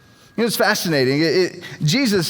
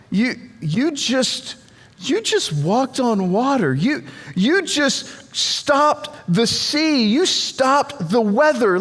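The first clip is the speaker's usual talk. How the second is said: higher-pitched incredulous protest; eye-rolling disbelief; 4 semitones higher than usual. Acted. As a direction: question him as if you can't believe it. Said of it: "they're rolling their eyes thinking".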